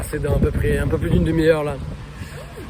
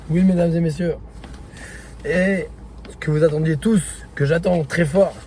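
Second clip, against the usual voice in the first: excited; 4 semitones higher than usual. Real, not acted. Hyping up the race bib.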